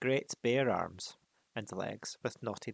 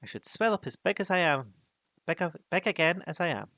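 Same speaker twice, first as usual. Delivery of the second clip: anxious hobbit; 6 semitones higher, 5 dB louder, faster than usual. Acted. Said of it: "he thought".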